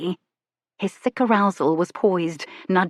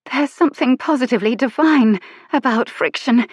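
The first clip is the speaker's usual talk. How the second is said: higher, louder breathless delight; panting; 7 semitones higher, 5 dB louder than usual. Acted. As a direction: pant it out with pleasure. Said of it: "she panted".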